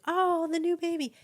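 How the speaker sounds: put-on high-pitched coo over a baby. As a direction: coo adoringly over a newborn. Cooing over someone else's baby.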